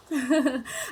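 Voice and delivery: small, soft chuckle; short laugh. Real, not acted. Teacher amused after calling out to the rain, short laugh. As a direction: chuckle briefly at yourself.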